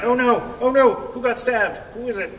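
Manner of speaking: imitating frantic neighbors asking who got stabbed; panicked crowd. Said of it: "And everyone's going like".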